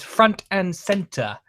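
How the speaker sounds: "front and center" mimicked with exaggerated accent; mock his way of saying "front and center"; "front and center" drawn out as a teasing copy; funny imitation. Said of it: "the funny way that he says".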